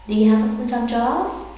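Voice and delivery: quick, running the words together; fast everyday question; fast natural speed. Shown as a demonstration. Teacher then saying the question fast and natural. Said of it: "Sentence ten".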